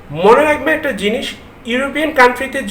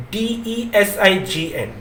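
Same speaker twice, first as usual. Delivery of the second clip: spelled out; 2 semitones lower, 6 dB quieter, much slower than usual. Shown as a demonstration. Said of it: "প্রথমে হবে".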